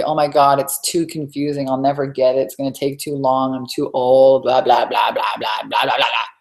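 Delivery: mock whiny inner critic, lightly voiced; nagging inner voice. Coach mimicking the self-doubt voice, mildly mocking. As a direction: grumble like the doubting voice in your head. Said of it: "that voice come in and say".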